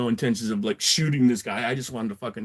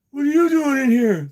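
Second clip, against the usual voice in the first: imitated surprise; 12 semitones higher, 5 dB louder than usual. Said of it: "he's like".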